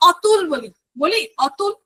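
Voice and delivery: অতুল with an open 'aw' at the start, questioned; unused pronunciation. Shown as a demonstration. Teacher asking who says it so, demonstrating. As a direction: ask it with অতুল said 'aw-tul'. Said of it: "বলি না".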